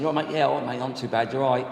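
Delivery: breezy lad brushing it off with a grin; jovial bloke. Retold or imitated. Two blokes swapping matey hellos, jovial and chirpy. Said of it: "Jovial, Jack the Lad".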